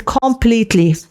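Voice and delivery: "completely" stretched out slowly; big-sounding word. Shown as a demonstration. Teacher showing students a big strong word, drawn-out emphasis. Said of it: "تحس إن الكلمة كبيرة".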